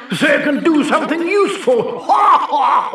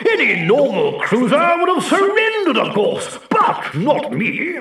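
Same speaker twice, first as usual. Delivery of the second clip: boasting. Acted. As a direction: brag like a war hero. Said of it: "listening to him boasting about his adventures".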